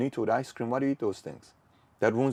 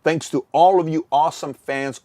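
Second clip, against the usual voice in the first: excited celebration; 6 semitones higher, 10 dB louder than usual. Real, not acted. Celebrating near 100k subs.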